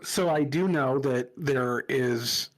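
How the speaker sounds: muffled, mic too close; sounding muffled and boomy; underwater. Real, not acted. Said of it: "it sounds like you're underwater".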